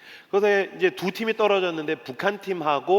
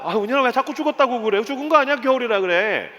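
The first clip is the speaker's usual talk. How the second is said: higher-pitched, pleading correction; exasperated father; 8 semitones higher than usual. Retold or imitated. Dad corrects his daughter yet once more, exasperated. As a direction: insist as a worn-down parent.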